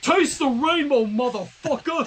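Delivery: loud, high, slow war cry; hammed-up battle cry. Friend hams up the heroine's finishing blast as a battle cry. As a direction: bellow it like a cartoon hero finishing the villain.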